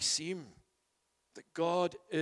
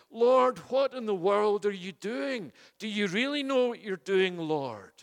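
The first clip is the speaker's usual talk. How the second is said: anguished pleading; 4 semitones higher, 4 dB louder than usual. Acted. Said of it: "asked the same sort of questions".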